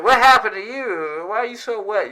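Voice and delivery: high, loud questioning; concerned astonishment. Pretend. Voicing the fly's friends.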